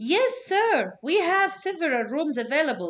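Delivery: loud, sing-song, enthusiastic eager receptionist voice. Demonstrating a two-person dialogue, the speaker voices the receptionist's reply: enthusiastic receptionist voice. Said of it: "so you have to change the tone".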